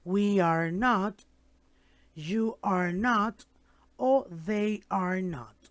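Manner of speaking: slow, careful teacher model of each phrase; slow clear model. Shown as a demonstration. Teacher slowly models negatives for students. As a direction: spell it out slowly for the class. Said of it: "Entonces yo voy a decir".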